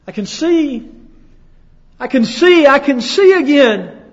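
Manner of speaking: high, loud cry of joy; joyful shout. Acted. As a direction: shout it out, suddenly able to see. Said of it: "As your friend begins to shout".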